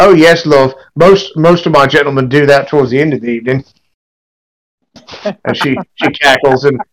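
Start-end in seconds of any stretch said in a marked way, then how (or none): 0.0-3.6 bold, brassy serving wench. Acted. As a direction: tease them like a saucy barmaid. GM voices the barmaid.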